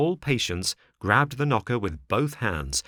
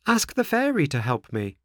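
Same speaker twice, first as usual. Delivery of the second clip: put-on higher, louder boy pleading; begging puppet boy; Pinocchio voice; 6 semitones higher, 3 dB louder than usual. A narrator's reading.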